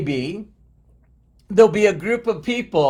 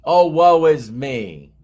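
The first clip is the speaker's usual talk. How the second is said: mock self-pity. Mocking the listener who whines about lacking motivation, hammed-up self-pity. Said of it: "next time you're saying".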